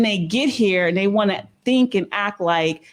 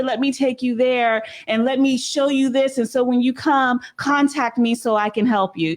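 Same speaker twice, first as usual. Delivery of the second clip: mock sales pitch; 3 semitones higher than usual. Mocking scammer pitch to newcomers.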